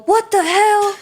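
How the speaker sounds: high, sharp "What the hell?" in imitation of an angry boss; retold angry shout; mock Booker yell. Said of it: "I just hear Booker go".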